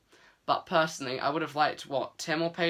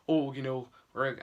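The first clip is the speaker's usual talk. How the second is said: put-on quick, light Scottish accent on "Oh, you know"; a brief Scottish lilt on "Oh" for Lenny; Lenny's words in a passing Scottish accent. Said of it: "that's the accent I just did there".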